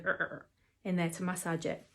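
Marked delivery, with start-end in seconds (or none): 0.0-0.5 rubbing noise. Retold or imitated. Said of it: "give that a good".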